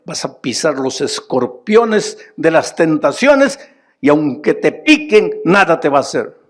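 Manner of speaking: fervent preaching. Acted. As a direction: proclaim victory over the tempters. Preaching at full force.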